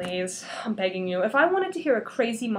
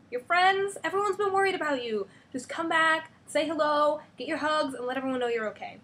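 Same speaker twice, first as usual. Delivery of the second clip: higher, fast pleading; eager pleading; 5 semitones higher than usual. Acted. Carol urging Wanda to come home, eager pleading. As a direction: coax her back eagerly.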